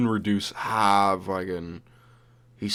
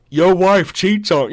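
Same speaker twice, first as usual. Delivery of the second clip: mock taunt; 8 semitones higher, 7 dB louder than usual. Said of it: "he'll start fucking right".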